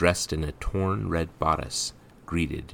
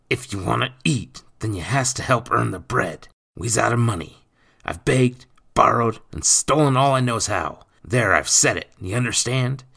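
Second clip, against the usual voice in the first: raised, pressing lecture; hissing stepfather; 7 semitones higher, 7 dB louder than usual. A narrator's reading. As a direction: press the boy hard, loud rather than hushed. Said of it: "Speaking in low tones, he hissed".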